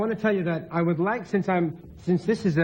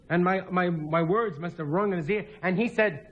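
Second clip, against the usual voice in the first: ordinary delivery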